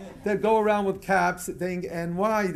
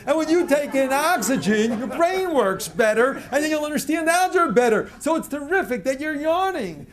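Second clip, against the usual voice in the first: enthusiastic praise; 6 semitones higher than usual. Pretend. Ideal teacher praising a yawning student, brightly enthusiastic. How the teacher should have answered.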